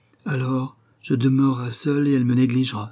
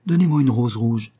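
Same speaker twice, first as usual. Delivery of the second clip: a louder call, same pitch; 5 dB louder than usual. Acted. Nightingale calling to the rose tree, louder. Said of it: "cria-t-il".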